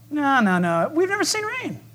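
high scoffing crowd voice; a hint of a mocking scoffer. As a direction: brush him off, sneering high. Scoffers answer Noah.

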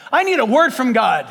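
restrained version of a needy plea; acted plea. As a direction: voice a believer asking, lightly acted. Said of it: "How many people in Christendom have said".

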